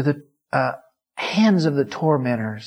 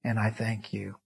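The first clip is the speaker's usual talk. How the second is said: closing prayer. Real, not acted.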